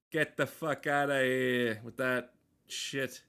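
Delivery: put-on slow, drawn-out New York accent; a New Yorker waving someone off, slowly. Streamer dismissing the ad in a slow New York accent. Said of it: "Doing fucking New York accent".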